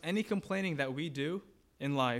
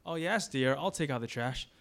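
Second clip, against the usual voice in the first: slightly louder, dutiful mock compliance; feigned agreement; 3 dB louder than usual. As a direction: play the obliging husband aloud. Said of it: "We say one thing".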